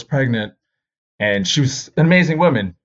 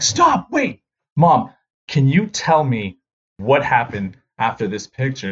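urgent stop; 2 semitones higher than usual. Retold or imitated. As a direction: stop her mid-slide, urgently. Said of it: "I was like".

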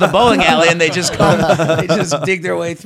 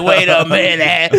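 slow realization; 5 dB louder, slower than usual. Retold or imitated. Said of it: "It took me a second".

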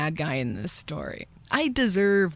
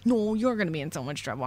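quick bickering comeback, stronger; mock childish retort; faster than usual. Other kid throws the rude words back, quick mock retort. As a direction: rattle off a kid's hurried counter-threat. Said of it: "said rude things to each other".

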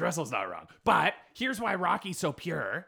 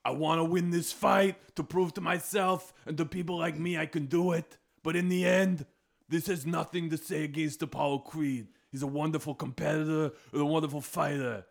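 Rocky impression. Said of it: "And Rocky would be like".

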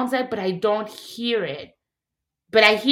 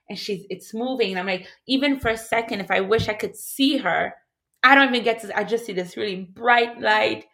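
usual speaking voice

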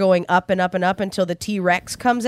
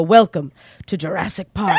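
booming grand welcome, a bit lower; John Hammond; 3 semitones lower than usual. Retold or imitated. Retelling the ride, imitating the park founder's booming welcome. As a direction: announce it like a proud park founder. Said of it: "you hear John Hammond's voice go".

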